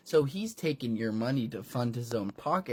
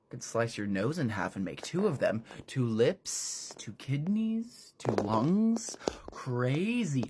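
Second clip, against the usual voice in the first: lightly voiced villain; 2 semitones lower than usual. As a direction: savour the grisly list. Villain lecture low.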